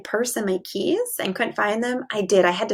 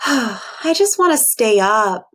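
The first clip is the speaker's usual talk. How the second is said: sputtered; 5 dB louder, slower than usual. Acted. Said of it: "sputtered Percy".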